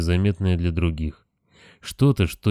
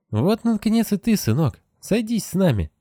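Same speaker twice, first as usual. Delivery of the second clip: father voice; 13 semitones higher than usual. Acted. Father's voice in a dream.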